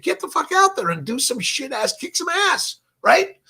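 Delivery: hammed-up locker room yell, high and loud; coach yelling. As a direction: bark it like a fired-up coach at halftime. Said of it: "he said".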